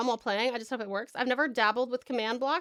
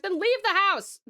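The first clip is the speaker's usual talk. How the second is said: annoyed mom; 8 semitones higher, 4 dB louder than usual. Retold or imitated. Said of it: "She's like".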